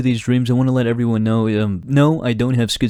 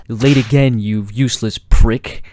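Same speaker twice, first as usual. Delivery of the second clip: mock insult; 4 dB louder, slower than usual. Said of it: "he goes".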